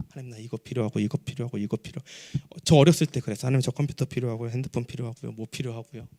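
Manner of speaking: low, soft murmured petition; imitating a humble, quiet prayer list; mock wish-list prayer. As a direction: rattle off requests under your breath. Mimics praying through wish list.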